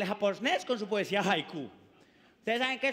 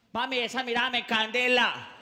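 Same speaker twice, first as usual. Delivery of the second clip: street flirt. Retold or imitated. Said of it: "Y él".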